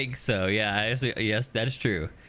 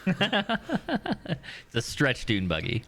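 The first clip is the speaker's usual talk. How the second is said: laughing; 5 semitones higher, much slower than usual. Real, not acted. Laughing while describing the vehicle.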